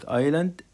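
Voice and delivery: "island" with the S left silent. Shown as a demonstration. Teacher showing pupils the silent letter in "island", S unpronounced. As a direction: say "island" as "eye-land", no S sound. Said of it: "الإس سايلنت، لا تنطق".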